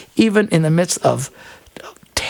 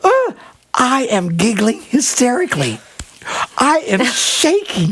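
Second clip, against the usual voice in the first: mock panic; 6 semitones higher, slower than usual. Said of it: "And we're like".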